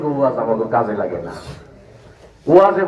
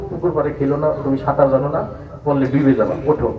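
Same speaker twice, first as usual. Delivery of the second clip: mildly coaxing adult, a little lower; gentle explaining; 3 semitones lower than usual. Acted. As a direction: reason kindly with a small child. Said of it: "প্রথমে সুন্দর করে বুঝাবে".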